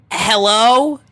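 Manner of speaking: high called hello toward the door; calling out. A narrator's reading. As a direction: call out, a little worried. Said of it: "she called".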